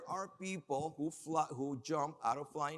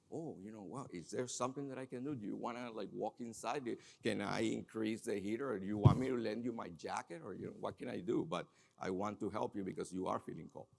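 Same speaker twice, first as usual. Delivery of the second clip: gentle caring offer; 3 semitones lower than usual. Shown as a demonstration. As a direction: offer help gently and kindly. Models empathetic response.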